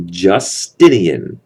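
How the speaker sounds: Justinian drawn out slowly by syllables; slow, careful "Justinian" for learners; name sounded out. Shown as a demonstration. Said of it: "Like Justin, only an Indian".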